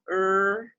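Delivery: "er" held as one long, steady vowel; demonstrated vowel. Shown as a demonstration. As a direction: sound out a sustained "er". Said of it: "when you do this sound".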